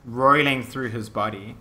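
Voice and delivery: measured storytelling with dramatic pauses; game master narration. Acted. Game master describes the necromancer and his army, suspenseful narration. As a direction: lay out the menace phrase by phrase.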